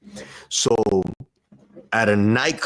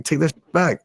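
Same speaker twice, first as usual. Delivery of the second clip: mock angry order; 9 semitones higher than usual. Brother rejecting the bottle.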